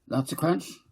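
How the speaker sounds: put-on small girl delighted by crunchy ice cream; little girl voice. Debbie child voice.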